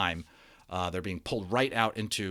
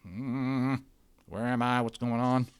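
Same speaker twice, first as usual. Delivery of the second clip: bewildered cowboy; 3 semitones higher, slower than usual. Acted.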